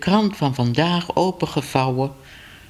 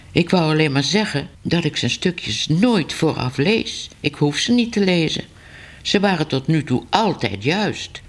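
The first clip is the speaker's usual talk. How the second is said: higher-voiced, anxious newspaperman; nervous editor; 4 semitones higher than usual. Editor nervously defending his reporter to Ellemeet. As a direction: defend the reporter, a bit timid.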